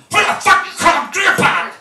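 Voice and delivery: very loud, very high retold yell; furious shout. Jack yells at Dave for calling him Grandpa, furious shout. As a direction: bellow it like an offended old man. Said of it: "Jack was like".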